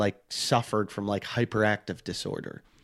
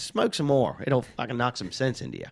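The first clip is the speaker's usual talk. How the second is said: put-on Aussie accent. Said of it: "my agent's an Aussie guy".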